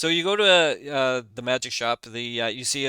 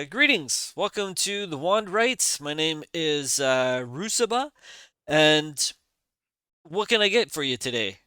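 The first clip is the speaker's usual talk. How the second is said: lightly voiced dwarf merchant, pitched up; dwarf shopkeeper; 4 semitones higher than usual. Dwarf greets visitors to the Wand Rite, lightly voiced. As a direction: greet customers as the dwarf, higher and slightly singsong. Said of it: "looks at you and he says".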